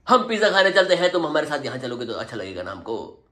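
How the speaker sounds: mock-tender invitation; sweet-talking invitation. Shown as a demonstration. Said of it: "और कितने प्यार से बोलूं".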